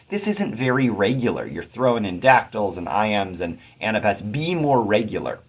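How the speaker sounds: mildly exasperated retold complaint; a touch of mock frustration at a poet. Student reader faulting the poet's irregular meter, mildly frustrated. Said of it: "I was kind of frustrated".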